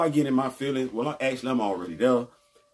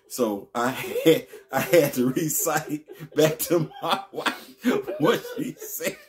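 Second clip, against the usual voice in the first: laughing; slower than usual. Real, not acted. Laughing while telling story.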